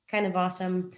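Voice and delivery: said with a smile; smiling voice. Real, not acted. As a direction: let the grin come through. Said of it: "you can hear the smile in my voice".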